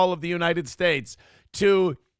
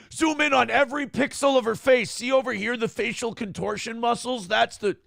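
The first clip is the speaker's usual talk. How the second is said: higher, eager online troll voice; internet person impression; 4 semitones higher than usual. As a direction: push the demand like a know-it-all commenter. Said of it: "impression of an internet person".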